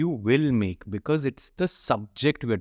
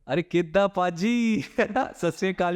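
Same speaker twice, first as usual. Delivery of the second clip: Punjabi greeting; 8 semitones higher than usual. Acted. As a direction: greet a Punjabi listener warmly. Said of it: "you have to say in Punjabi".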